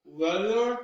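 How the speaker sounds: slow, each syllable drawn out around the fingers; with fingers in mouth, very slow. Shown as a demonstration. Cork work tongue twister with fingers in the mouth. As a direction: articulate every syllable slowly. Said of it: "One more time".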